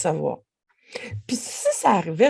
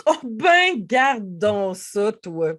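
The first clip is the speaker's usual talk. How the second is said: slow, drawn-out mock scolding; a light comic tut-tut; playful teasing; much slower than usual. Shown as a demonstration. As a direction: tease yourself gently. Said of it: "changer l'intonation".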